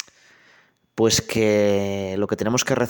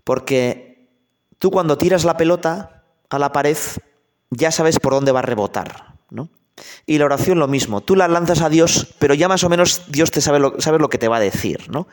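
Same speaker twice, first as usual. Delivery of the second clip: higher, louder folksy priest, lightly voiced; a lightly played village priest arguing his point; priest explaining; 4 semitones higher, 3 dB louder than usual. The priest explains to the bishop that prayer is like pelota, raised and louder. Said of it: "Y el cura dice".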